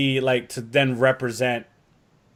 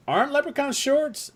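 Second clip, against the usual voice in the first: Shadow Moon; 12 semitones higher than usual. Retold or imitated. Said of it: "Shadow Moon goes".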